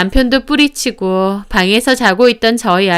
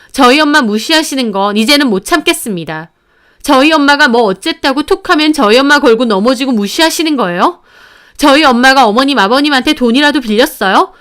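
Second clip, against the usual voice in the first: raised, indignant protest; aggrieved daughter-in-law arguing back, voice pitched up; pent-up outrage; 4 semitones higher than usual. Acted. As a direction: cry out in resentment on mother's behalf. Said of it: "저도 울분에 차서 외쳤습니다".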